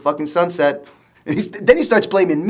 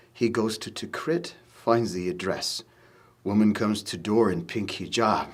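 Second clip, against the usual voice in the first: reading a letter; 8 semitones lower, 12 dB quieter than usual. Acted. Reading brother's letter aloud.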